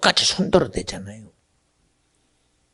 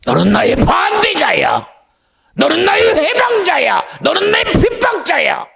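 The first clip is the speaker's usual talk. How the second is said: from a hush to a high ringing shout; the voice from heaven building to a piercing cry; rising accusing shout; 4 dB louder than usual. Acted. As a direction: cry out the accusation, climbing higher each line.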